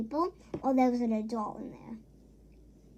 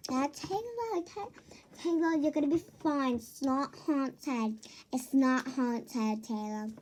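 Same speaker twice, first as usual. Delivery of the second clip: mock reassuring parents; 3 semitones lower, 5 dB quieter than usual. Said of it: "They're like".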